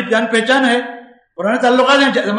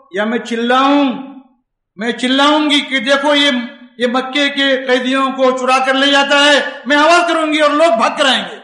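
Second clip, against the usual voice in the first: threatening; 3 semitones higher, 3 dB louder than usual. Retold or imitated. Woman threatens to scream.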